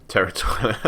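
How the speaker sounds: a young scholar boasting to a traveller, lightly voiced; lightly voiced eager girl. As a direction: read her up high and keen, lightly. Girl's line ends.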